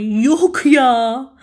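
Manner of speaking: drawn-out disbelieving exclamation; slow surprise. Shown as a demonstration. Demonstrating disbelief for students, slowly. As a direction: stretch it out in disbelief.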